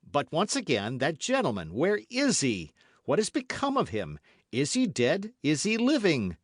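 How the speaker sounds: loud, high rapid questions; urgent demand. A narrator's reading. D'Artagnan demanding his friend's fate, urgent. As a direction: demand answers.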